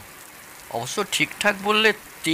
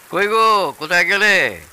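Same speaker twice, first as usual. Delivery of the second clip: calling out; 3 semitones higher, 4 dB louder than usual. Acted. Father-in-law calls his wife to come out. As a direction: call out to the wife in the next room.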